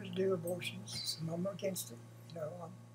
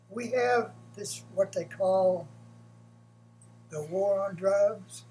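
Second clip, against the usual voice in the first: sarcastic; 2 semitones higher, 4 dB louder, slower than usual. Real, not acted. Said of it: "That's a joke".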